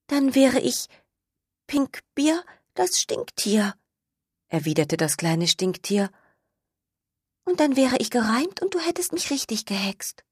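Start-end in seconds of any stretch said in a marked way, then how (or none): 0.1-3.7 high, light little skunk voice; sing-song rhyme, pleased with the idea. Acted. Skunk character voice. 7.4-10.2 high, light little skunk voice; sing-song rhyme, pleased with the idea. Acted. Skunk character voice.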